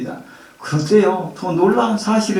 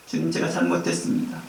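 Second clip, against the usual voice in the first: humble confession; 3 semitones lower, 9 dB quieter than usual. Pretend. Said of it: "정직하게 인정하는 것입니다".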